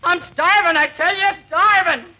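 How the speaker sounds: hammed-up starving prospector; old prospector voice. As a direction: wail it like a starving old miner. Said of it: "You're going to be an old prospector".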